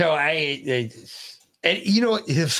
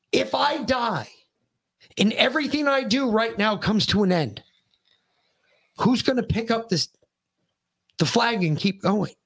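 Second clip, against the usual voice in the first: raised-pitch, emphatic retold lecture; pissed-off tirade; 4 semitones higher than usual. Dad challenges son to pick up the flag, pissed-off tirade. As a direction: re-enact an impassioned appeal, pausing between phrases. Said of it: "went into another tirade because I was fucking pissed".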